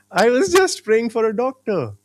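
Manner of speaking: laugh. Real, not acted. Laughing at the coincidence.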